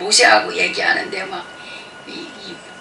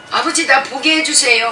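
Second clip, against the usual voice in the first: Moses pleading; 5 semitones higher, 7 dB louder than usual. Retold or imitated. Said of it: "막 이러잖아요".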